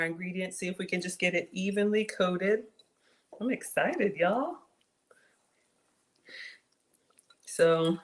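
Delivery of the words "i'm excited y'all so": whispering. Real, not acted. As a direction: whisper it while stirring. Whispered asides while folding salad.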